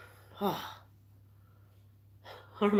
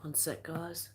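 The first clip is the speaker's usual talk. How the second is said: teary from coughing; 10 dB quieter, slower than usual. Real, not acted. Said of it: "Tears are rolling down my face".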